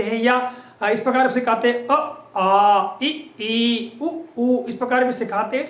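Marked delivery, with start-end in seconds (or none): 1.9-4.7 अ, आ, इ, ई jerked out one after another; jerky vowel drill. Shown as a demonstration. Teacher showing the jerky vowel drill he calls wrong. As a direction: snap each vowel अ, आ, इ, ई out sharply like a drill. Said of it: "ई ऐसा झटके से उच्चारण करना सिखाया जाता है".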